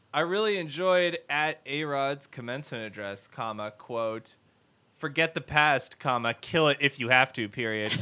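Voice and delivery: reading out punctuation aloud; dictating. Shown as a demonstration. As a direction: dictate the tweet, saying comma and period. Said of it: "okay, here's a tweet".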